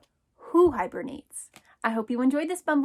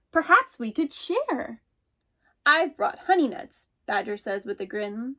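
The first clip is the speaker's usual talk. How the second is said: lively picture-book read-aloud, voicing each animal; animated storytime narration; reading to children; slower than usual. Teacher reads picture book aloud.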